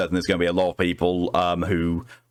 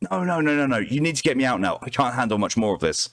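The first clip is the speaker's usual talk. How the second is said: panicked pleading; 3 semitones higher, faster than usual. Acted. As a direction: beg to be pulled out. Trapped man panicking.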